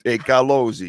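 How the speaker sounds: lightly put-on Italian-American wiseguy accent; a touch of mock Italian-American swagger. Host shows how to address Carlozzi, mock Italian-American accent. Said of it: "If I use that accent".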